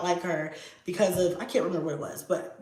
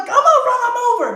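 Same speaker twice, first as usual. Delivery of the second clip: high, loud, quick mock threat; retold threat; 8 dB louder, faster than usual. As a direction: blurt it in pretend fury. Replaying her earlier angry threat.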